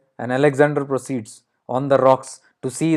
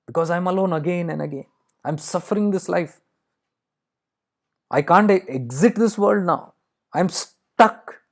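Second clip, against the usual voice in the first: higher-pitched, acted despair; despairing complaint; 4 semitones higher than usual. Crow telling Alexander it cannot exit this world, despairing complaint. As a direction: lament it with the pitch held high.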